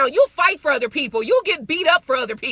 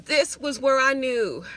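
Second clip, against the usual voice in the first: lower, softer, slowed voice of God; 6 semitones lower, 6 dB quieter than usual. Retold or imitated. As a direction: speak as God, low and hushed, to a beloved daughter. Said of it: "He says".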